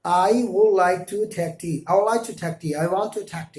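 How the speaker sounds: put-on very slow English accent, tea with a breathy T; English aspirated T. Teacher imitating how English speakers say tea slowly. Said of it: "जैसा कि वो बोलेंगे".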